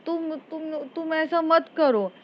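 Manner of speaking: halting, pleading voice just waking up; dazed plea. Retold or imitated. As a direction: beg weakly as if half-conscious. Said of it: "एकदम से बोलती है".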